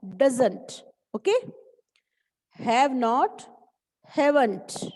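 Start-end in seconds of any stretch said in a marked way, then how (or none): 0.0-0.8 "doesn't" as one word with falling end; careful pronunciation model. Shown as a demonstration. Teacher asking pupils to listen to the pronunciation, "doesn't" said carefully. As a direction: model DOESN'T clearly, -nt joined on. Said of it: "इसकी pronunciation ध्यान से सुनो".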